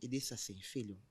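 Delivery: quick aside. Retold or imitated. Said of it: "vou falar como ele falou".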